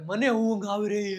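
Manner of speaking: sleepy words trailing into a yawn; mock sleepy yawn. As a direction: pretend to yawn as you finish. Acts out feeling sleepy, yawning.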